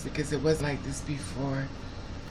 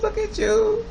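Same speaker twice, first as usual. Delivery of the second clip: very high, squeaky coo, stress on you; squeaky baby talk; 4 dB louder, slower than usual. Retold or imitated. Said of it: "I have a bad habit when I see young, young people".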